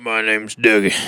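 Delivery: creepy Dougie voice. Acted. Repeats creepy Dougie line.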